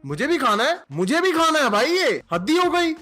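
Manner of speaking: pushy customer insisting on the same food; mock indignant demand. (जिद्दी ग्राहक की नकली शिकायत)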